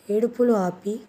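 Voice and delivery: a touch of anger, pressing for the reason; husband tells his crying bride to stop and explain, mildly angry; angry demand. Acted. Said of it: "కోపంగా అడిగాడు".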